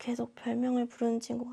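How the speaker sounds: very quiet, barely audible, hard-to-hear mumble. Teacher shows students how an unclear reply sounds, in a barely audible voice. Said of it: "선생님 목소리 잘안 들리죠?".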